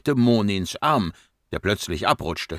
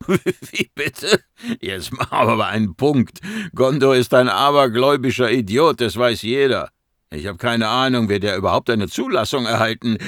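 louder, incredulous outburst; raised-voice exasperated rant; indignant scoffing; 3 semitones higher, 5 dB louder than usual. Acted. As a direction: scoff loudly at superstitious nonsense. Archaeologist scoffs at superstitious colleague.

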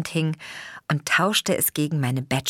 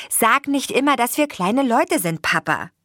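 mild reproach; 8 semitones higher, 4 dB louder than usual. A narrator's reading. Daughter objects, tired of it.

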